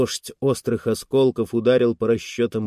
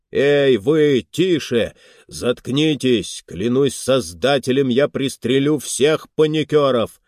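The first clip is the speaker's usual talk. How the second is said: shouting orders over battle; 2 semitones higher, 3 dB louder than usual. Acted. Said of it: "Сквозь грохот и крики людей прорвался голос".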